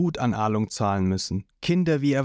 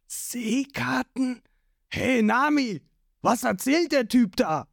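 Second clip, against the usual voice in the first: puzzled, higher questions; confused; 10 semitones higher, slower than usual. A narrator's reading. Zorro baffled by Nami's new friends, puzzled and higher. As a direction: ask in bewildered disbelief. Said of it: "Zorro, der immer noch nicht ganz versteht".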